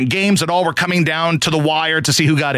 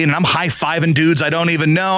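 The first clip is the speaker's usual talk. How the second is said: ordinary talk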